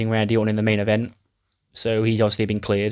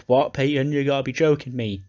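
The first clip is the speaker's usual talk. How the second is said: higher-pitched, incredulous protest; mock disbelief; 4 semitones higher than usual. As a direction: play it mildly aghast at a friend's betrayal. Acted disbelief from wrestler on floor.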